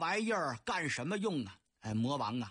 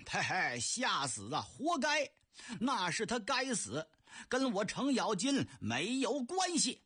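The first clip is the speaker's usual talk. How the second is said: Cheng Yaojin mocking; 3 semitones higher than usual. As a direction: brush off the blame with a sneer. (程咬金嬉皮笑脸地耍赖)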